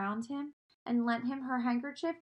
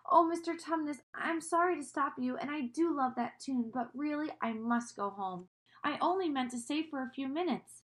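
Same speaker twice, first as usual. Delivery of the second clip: Lucy's voice; 4 semitones higher than usual. Acted. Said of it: "she shook herself and said".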